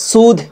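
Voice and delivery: সুদ with h merged into the final d; aspirated ending. Shown as a demonstration. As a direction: release সুদ on a breathy dh. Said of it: "হায়ের উচ্চারণটা লাস্টের দিকে হবে". (সুদ-এর শেষে হা মিলিয়ে)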